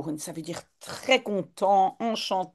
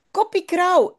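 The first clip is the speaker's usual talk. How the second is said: high, loud squawking parrot on Koppie krauw; 11 semitones higher, 4 dB louder than usual. Acted. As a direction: screech it like a parrot. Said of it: "zegt de papegaai". (voix de perroquet aiguë et criarde)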